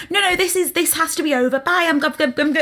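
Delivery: high, stammering mock panic; panicked stammer. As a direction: trip over the words trying to flee. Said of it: "And she's like".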